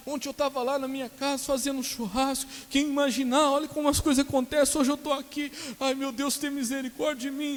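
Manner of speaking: very high-pitched mock wailing; imitated tearful lament. Frightened patient recalling yesterday's barbecue, imitated wailing. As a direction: lament like a patient begging God for mercy. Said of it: "Ele começou a chorar".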